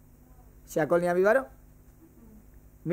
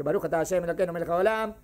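fast, lower-pitched blessing recital; quick blessing; 4 semitones lower, faster than usual. Acted. Teacher re-enacting a blessing said quickly, rapid recitation. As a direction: rattle through the blessing in one go. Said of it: "yo dije rápido".

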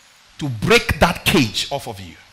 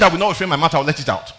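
angry Job quote; 6 dB louder than usual. Retold or imitated. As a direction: read Job's complaint with rising force. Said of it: "he got so angry".

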